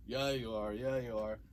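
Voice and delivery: loud, goading dad voice; teasing dad. Retold or imitated. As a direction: bait him like a teasing father. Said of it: "doing his whole bait thing".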